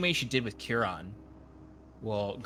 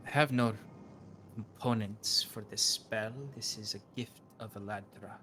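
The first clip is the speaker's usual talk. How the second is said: slow, grave mystic lecturing; a cryptic oracle correcting a guest; a hint of a stern priestess; solemn seer; 4 dB quieter, slower than usual. GM voices the seer on magic.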